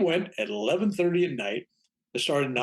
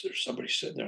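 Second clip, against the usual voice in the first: spooky whisper; 6 dB quieter, faster than usual. Retold or imitated. Eerie quote of the girl.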